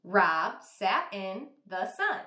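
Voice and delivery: "Rob sat in the sun" read slowly as one smooth phrase; slow, smooth scooped reading. Shown as a demonstration. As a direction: scoop it together with the class. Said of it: "Read that with me".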